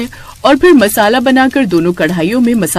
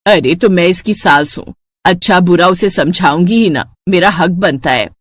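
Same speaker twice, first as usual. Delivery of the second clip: put-on lower, weary old mother-in-law voice; tired elderly woman complaining at the table; grumbling mother-in-law; 3 semitones lower than usual. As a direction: grumble like a fed-up saas. Mother-in-law defends herself.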